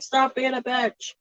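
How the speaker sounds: slow, blunt put-on voice for the wife; mock blunt wife. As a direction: drag it out flatly as the wife. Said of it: "She's like".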